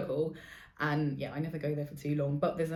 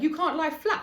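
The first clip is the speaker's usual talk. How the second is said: stern therapist voice; 9 semitones higher, 5 dB louder than usual. Retold or imitated. Therapist scolding during massage.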